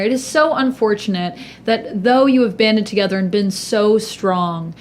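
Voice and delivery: loudly. Acted. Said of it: "Bree says loudly over".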